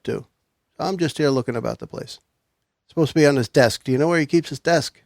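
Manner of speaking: smooth detective cover story. Acted. Player voices his detective.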